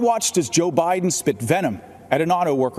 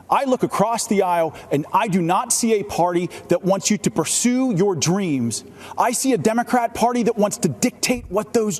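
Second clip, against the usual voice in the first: higher, building fervent rally speech; rising passion; 6 semitones higher than usual. Acted. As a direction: build to a fiery climax.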